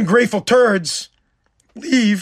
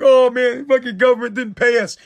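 mildly mimicked soldier's complaint; higher-pitched mock moan at the start; mock griping; 3 semitones higher than usual. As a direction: grumble in imitation of unpaid troops. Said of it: "you guys tried to bitch".

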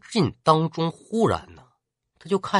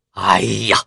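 dismayed cry; 7 semitones lower than usual. Acted. Zhao Yun cries out in dismay.

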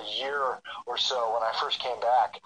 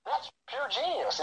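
higher, slow admiring praise; impressed; 10 semitones higher, 4 dB quieter, slower than usual. Retold or imitated. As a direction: savor the compliment, drawn out. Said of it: "And I was like".

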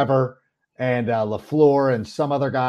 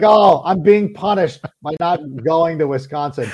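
mock complaint; 3 dB louder than usual.

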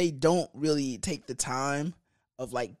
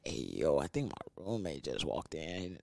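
mock frantic; 9 semitones lower, 8 dB quieter than usual. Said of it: "I go frantic".

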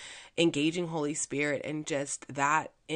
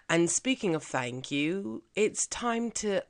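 put-on British accent. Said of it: "now my British accent is starting to sound a little Australian".

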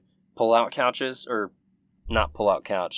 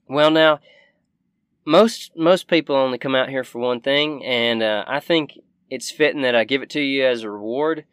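lightly voiced shopkeeper, a little higher; Southern shopkeeper woman; 4 semitones higher, 6 dB louder than usual. Shopkeeper sizing up two battered adventurers, lightly voiced. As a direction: play the folksy shopkeeper, lightly.

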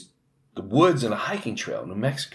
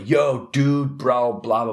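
California surfer voice; 3 semitones higher, slower than usual. Retold or imitated. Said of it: "he's full-blown California".

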